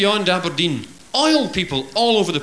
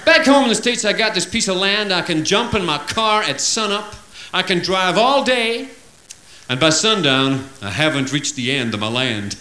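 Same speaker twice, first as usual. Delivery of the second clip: put-on American accent; 3 semitones higher than usual. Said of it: "the big American".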